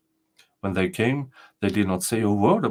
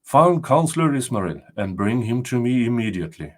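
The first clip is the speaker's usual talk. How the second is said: royal command; 2 semitones higher, 3 dB louder than usual. Acted. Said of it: "he commanded".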